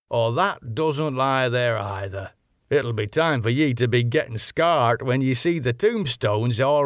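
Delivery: a hint of an old local man, chatty and reassuring; lightly voiced old sailor teasing the young ladies; old Yorkshire fisherman. Old fisherman reassures the young ladies, mild local dialect.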